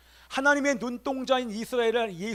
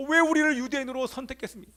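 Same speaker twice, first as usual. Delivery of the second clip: impassioned, high-pitched outcry; acted anguished plea, pitched high; crying out to God; 5 semitones higher, 4 dB louder than usual. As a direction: cry out in protest to God. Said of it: "이렇게 하나님 앞에 부르짖고 외칩니다".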